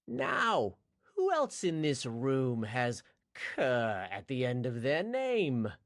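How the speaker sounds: slow, taunting villain voice; menacing villain. Acted. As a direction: draw out the threat. Villain Towin addresses the castle.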